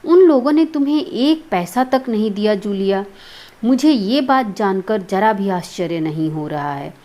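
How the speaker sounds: mildly acted indignation; a touch of heated outrage; agitated, angry. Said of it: "उत्तेजित स्वर में".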